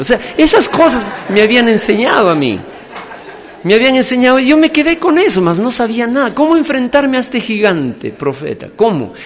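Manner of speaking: loud, high impassioned preacher's cry; preaching at full force. Real, not acted. Preacher telling congregation of his unreadiness, at full force. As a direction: belt it out to the congregation.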